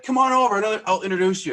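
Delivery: high, loud friendly call; calling over. Retold or imitated. Bar guy calling the fan over to meet Stoner. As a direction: wave him over across the bar.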